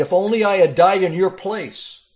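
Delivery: loud, high cry of anguish. Acted. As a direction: wail it out as the grieving king. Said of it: "David cried".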